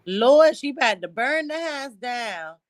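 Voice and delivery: lightly voiced fretting auntie; high, sing-song worried aunt. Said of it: "in my Aunt D voice".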